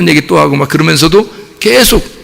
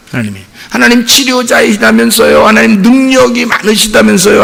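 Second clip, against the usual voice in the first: preaching shout; 7 semitones higher than usual. Real, not acted. Preacher rebukes skeptics, raised voice.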